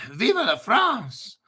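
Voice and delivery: slow, hammed-up German-accented cheer; mock German accent. To the chat, a mock German-accented toast. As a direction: drag it out in a put-on German accent. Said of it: "that's actually a German accent, not French".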